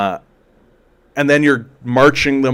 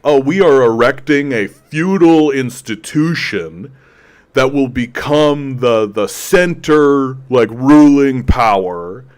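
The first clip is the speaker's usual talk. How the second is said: mock grand lords; 3 dB louder, slower than usual.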